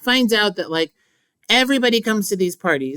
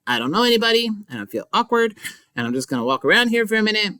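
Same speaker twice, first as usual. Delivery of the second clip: awkward rushing; 2 semitones higher, faster than usual. Retold or imitated. Nick's awkward inner voice.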